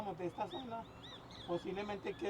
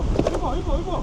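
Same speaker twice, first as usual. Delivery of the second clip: excited calling out; 9 semitones higher, 14 dB louder than usual. Real, not acted. Guide calls out the hippo.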